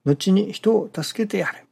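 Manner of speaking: measured, lilting recitation of a teaching; reading scripture aloud. Acted. Preacher reads the teaching to worshippers before commenting, measured recitation. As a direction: read the sacred text out evenly, phrase by phrase.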